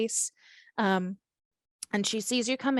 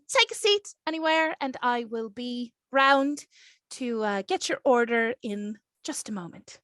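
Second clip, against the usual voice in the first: put-on Irish accent. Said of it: "sounding like Aisling Bea".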